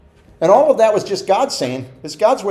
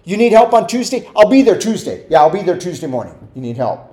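unreliable friend; 4 dB louder than usual. Retold or imitated. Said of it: "I hate to be that person that tells somebody".

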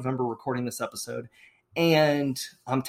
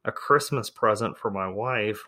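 leaning into the mic; 3 semitones lower than usual. Real, not acted. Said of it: "I'm gonna lean into the mic here".

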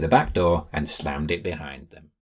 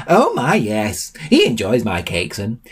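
put-on high, slow doddering old man; dotty old man; 4 semitones higher than usual. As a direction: ramble like a sweet forgetful grandad. Old man rambles about Gertie.

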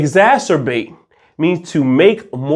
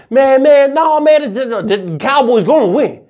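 arguing fan; 10 semitones higher than usual. Acted. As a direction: play a fired-up Cowboys fan in an argument. Acted sports argument, Cowboys fan.

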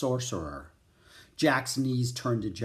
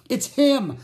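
high, loud cry of alarm; 12 semitones higher, 8 dB louder than usual. A narrator's reading. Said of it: "Jack cried".

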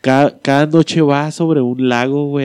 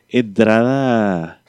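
very slow, stretched entrada; drawn-out announcement; 2 semitones lower, much slower than usual. Real, not acted. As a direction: stretch the word slowly for suspense. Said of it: "¿Vas a darle entrada o". (anuncio muy lento y alargado)

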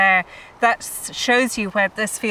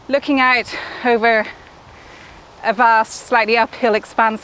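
out of breath; 2 semitones higher than usual. Real, not acted. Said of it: "that's why I'm out of breath".

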